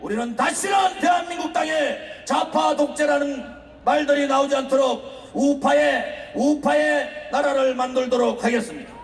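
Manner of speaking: shouting fiery rally speech to a crowd; roaring rallying speech. Real, not acted. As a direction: rouse the crowd, full-throated. (우렁찬 집회 연설)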